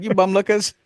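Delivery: put-on high childish accusation; high little-boy voice; Simon voice. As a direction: squeak it like a cheeky boy. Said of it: "just like".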